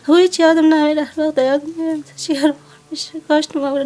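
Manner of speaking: crying out the painful memory; tearful outburst. Real, not acted. Mother recounting daughter's death tearfully. (با گریه و صدای بلند)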